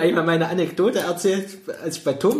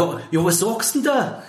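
put-on Bavarian accent; 4 semitones higher, slower than usual. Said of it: "so einen bayerischen Akzent".

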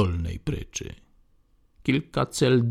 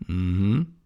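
put-on old man's muttered mhm. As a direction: grunt it under the breath. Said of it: "mruknął teraz".

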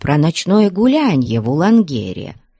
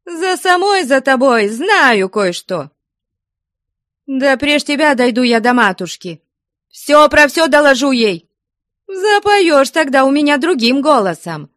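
high, loud furious threatening; angry threats; 11 semitones higher, 4 dB louder than usual. A narrator's reading. Ustinya threatens Flyonushka, loud and furious. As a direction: spit threats at her rival.

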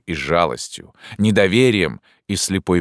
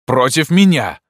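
loud, much higher angry cry; furious shout; 9 semitones higher, 7 dB louder than usual. Acted. Narrator shouts at Pierrot in fury. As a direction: bark it back at him in rage.

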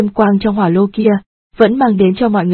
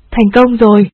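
excited; 4 dB louder than usual. Acted. Character cries success.

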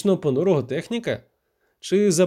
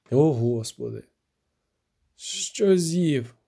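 a weak, listless grumble from a sick corporal; lightly voiced feverish corporal grumbling; sluggish grumble; much slower than usual. A narrator's reading. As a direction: mumble it with no strength left. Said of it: "мляво буркнув він".

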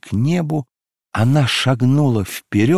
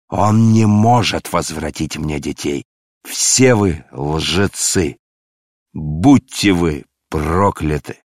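louder, slow raging father; grief-stricken fury; 4 dB louder, slower than usual. Acted. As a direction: curse them in bitter grief. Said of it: "взорвался он гневом". (отец в горе и гневе проклинает)

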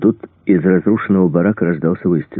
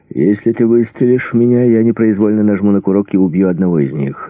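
higher, tense hostage-taker's warning; tense threat; 5 semitones higher, 5 dB louder than usual. A narrator's reading. Cornered gunman warns his attacker off the hostages, tense threat. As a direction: warn him off urgently, pitch raised.

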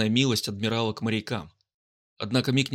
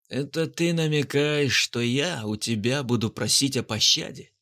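sneering panto villain. Acted. Guard taunts the pirate.

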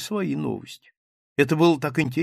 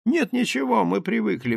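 ordinary delivery

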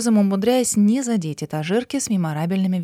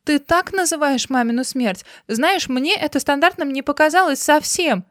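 higher, wounded protest; a touch of tearful indignation; hurt outrage; 7 semitones higher, 3 dB louder than usual. A narrator's reading. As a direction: throw it back at him, hurt.

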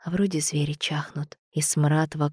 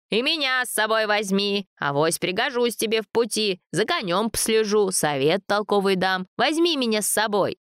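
put-on pleading old man; 5 semitones higher than usual. A narrator's reading. Old man begging to come along.

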